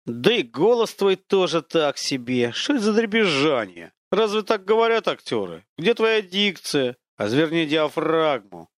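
slow, sneering theatrical critic; lightly voiced haughty spirit lecturing a man; mocking unseen voice.

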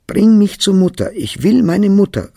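put-on a child's desperate demand; tearful shout. Boy shouting at the nanny in the street, loud and high. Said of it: "rief ich und stampfte auf".

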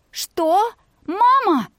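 stunned, pitch jumping up; shocked disbelief. A narrator's reading. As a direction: voice leaps high in shock. Daughter shocked at being thrown out. («Что? Мама?» — дочь потрясена: голос взлетает вверх)

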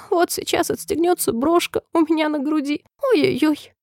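высокое капризное нытьё королевы; ной высоко, в предчувствии беды; хныканье. A narrator's reading. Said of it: "прохныкала королева". (хнычущим высоким голосом)

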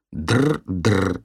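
mimicking phone trill; mock phone ring. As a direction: tease her with a copy of the ring. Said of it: "передразнивает Стив".

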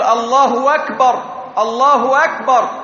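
wrong w glide between الله and أكبر, "Allahu wakbar"; added waw error. Shown as a demonstration. Teacher showing a muezzin's mistake, extra w before أكبر. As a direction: join الله to أكبر with an inserted w. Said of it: "من يزيد واوا بين الاسم الأحسن".

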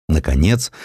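usual speaking voice

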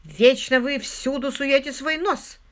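drawn-out venomous reproach; angry hiss. A narrator's reading. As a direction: hiss it at a meddler. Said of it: "прошипела хозяйка квартиры".

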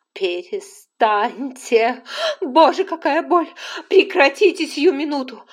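pained shriek to stop; screaming in pain. A narrator's reading. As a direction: yell at them to stop, in agony. Woman screaming in labour pain.

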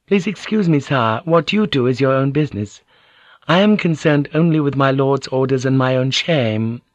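lightly voiced lady, coolly courteous; polite but understated rebuff; noblewoman, politely firm. Voices Mariko dismissing the lord.

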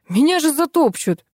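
high-pitched wailing complaint. A narrator's reading. Vasya fearing he'll be trampled, wailing. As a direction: wail that you're doomed. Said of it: "взвыл Вася".

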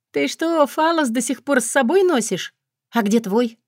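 amused high question; surprised. Acted. Laughing question to friend.

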